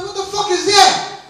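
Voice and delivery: high incredulous question; baffled. Acted. Customer asking owner what he means, incredulous. Baffled reply to garbled swearing.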